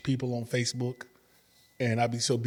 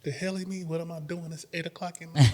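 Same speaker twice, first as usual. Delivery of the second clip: high, disbelieving mock outrage; incredulous reaction; 6 semitones higher than usual. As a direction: act baffled at a late call. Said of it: "and I'm like".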